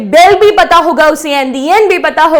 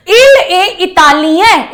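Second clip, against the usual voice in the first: slow model sentence; much slower than usual. Shown as a demonstration. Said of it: "teacher models French sentence".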